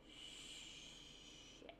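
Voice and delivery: a breathy whispered "Shit."; whispered curse. Acted. The listener realizing the huge loan, whispered curse. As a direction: mutter it under your breath, dismayed.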